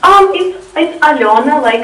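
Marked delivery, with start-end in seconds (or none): 1.0-1.6 "Alena" said al-YO-na with a soft L; "Alena" in its native form, stressed YO after a soft L. Shown as a demonstration. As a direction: soften the L in "Alena" into al-YO-na. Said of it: "it's a soft L".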